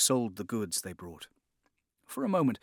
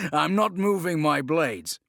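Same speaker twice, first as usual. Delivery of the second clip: assassin's voice; 5 semitones higher, 6 dB louder than usual. Acted. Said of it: "he said".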